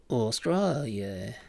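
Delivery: slow Australian "Australia", stretched out; slow practice take of an Australian accent; attempted Australian accent. Shown as a demonstration. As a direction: try "Australia" in an Aussie accent, drawn out.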